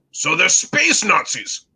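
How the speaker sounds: slow, drawn-out question in a put-on British accent; terrible British accent. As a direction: query it slowly in mock British English. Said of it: "I will do my terrible British accent".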